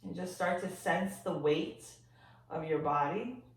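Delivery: gentle, softened body-scan voice with long pauses; guided meditation. Real, not acted. Yoga teacher guiding listeners to sense their body, calm meditation voice. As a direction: ease them into noticing, leaving silence between phrases.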